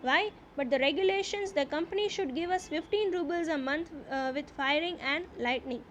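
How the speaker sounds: slow, deliberate reading aloud of the English text; slow story reading. A narrator's reading. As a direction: read each phrase slowly, as a teacher before translating. (ધીમે ધીમે વાર્તાનું વાંચન)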